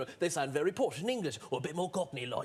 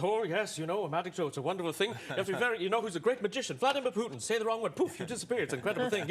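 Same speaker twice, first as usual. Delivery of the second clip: lightly voiced manic comic riff; a hint of Robin Williams, chatty and playful; gently done Robin Williams ramble; 2 semitones higher than usual. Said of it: "Robin goes".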